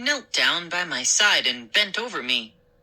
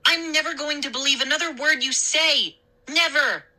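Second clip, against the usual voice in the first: cold anger; 9 semitones higher than usual. A narrator's reading. Mindy furious after prank.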